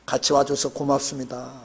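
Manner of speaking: heartfelt thanks. Shown as a demonstration. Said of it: "손 잡으시면서".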